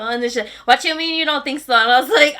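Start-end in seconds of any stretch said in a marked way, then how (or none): 0.6-1.7 sharp, higher, louder mock scolding; mom kinda mad. Mom demanding an answer from her daughter, mildly mad. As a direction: play the annoyed mom pressing her. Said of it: "she was kinda mad".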